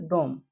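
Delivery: डोम with a long o, no final e. Shown as a demonstration. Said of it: "उसका उच्चारण ओ हो". (डोम में लंबा ओ स्वर)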